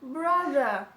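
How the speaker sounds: mock the careless doctor; imitating the doctor. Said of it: "the doctor starts speaking like this".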